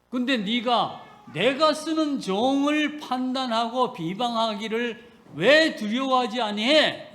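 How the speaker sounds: a mild, voiced scolding from God; stern rebuke. Preacher voicing God scolding Miriam, a touch of sternness. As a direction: scold them lightly, as God speaking. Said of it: "이렇게 말씀하시는 거예요".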